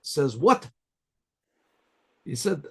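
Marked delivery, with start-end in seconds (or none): 0.4-0.7 higher-pitched retold "what?"; mock astonishment, pitched up; startled reaction. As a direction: act out a brief, taken-aback question. Lady reacts sharply to the name.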